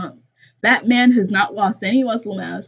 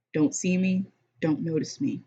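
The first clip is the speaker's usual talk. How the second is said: softer, lowered read-aloud thought; hushed inner plea; 4 semitones lower, 7 dB quieter than usual. A narrator's reading. Alex hoping the man misses her, hushed plea. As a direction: hush it like a silent wish. Character's silent plea in narration.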